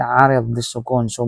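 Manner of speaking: ordinary talk, nothing marked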